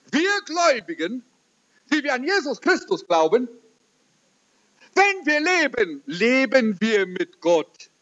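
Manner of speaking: a believer's happy, fearless witness; beaming with joy. Retold or imitated. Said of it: "Dann sagte er freudestrahlend". (freudestrahlend, höher gesprochen)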